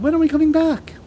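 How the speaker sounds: put-on high, loud anxious girl; crying out. A narrator's reading. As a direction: cry out desperately. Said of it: "Matilda cried".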